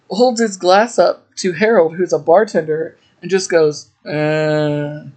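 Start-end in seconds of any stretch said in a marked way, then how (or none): 4.1-5.0 a low wordless grunt; mock grunt. Elmo holds up his glass for a drink, mock grunt. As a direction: grunt for a drink, lightly imitated. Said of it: "like, grunting 'cause he wants a drink".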